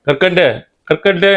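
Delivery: rising call from outside the door. Acted. Disciple calling Karkandu in from the door, rising call. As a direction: call the name out, lifting it high.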